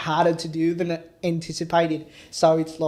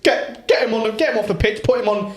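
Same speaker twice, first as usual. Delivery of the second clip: Cockney football gaffer. Pretend. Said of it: "you got the gaffer going on".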